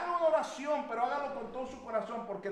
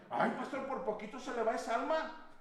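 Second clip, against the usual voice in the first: laughing; 7 dB quieter than usual. Retold or imitated. Retold brother teasing pastor.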